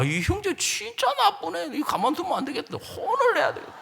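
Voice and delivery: high-pitched, scandalized reaction; mock indignation. Evangelist reacting to a wife's complaint, mock indignation. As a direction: swallow the gossip and get worked up, pitched high. Acts his gullible indignation at husband.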